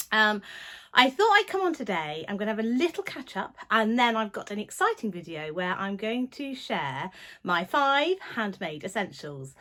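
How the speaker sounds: breathless after running upstairs; out of breath. Real, not acted. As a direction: talk while catching your breath. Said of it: "catching my breath".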